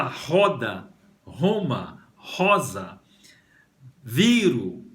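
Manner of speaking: roda, Roma, rosa, viro as separate model words; demonstrating the RO sound. Shown as a demonstration. Teacher listing roda, Roma, rosa, viro for the RO, deliberately articulated. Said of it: "tudo isso tem o ro".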